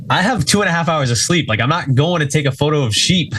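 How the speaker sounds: mock exasperation. Retold refusal to go see sheep.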